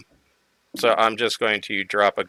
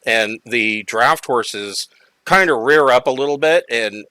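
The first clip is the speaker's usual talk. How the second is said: usual speaking voice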